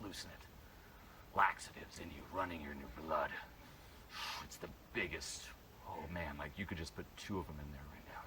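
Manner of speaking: low, soft, soothing patter; quiet low guided-relaxation voice; hushed coaxing. Shown as a demonstration. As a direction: talk them into loosening up. Coach coaxing student to loosen.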